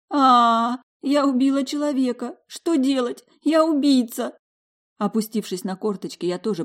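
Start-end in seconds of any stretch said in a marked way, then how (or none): 0.1-4.4 high, loud panicked outburst. Acted. Dasha over the body she hit, panicked high cry. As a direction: spill it out in horror. Смыло паникой.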